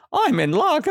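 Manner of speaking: high gleeful line into a laugh; chuckled. Acted. Teacher voicing the lucky old woman, chuckled. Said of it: "She chuckled".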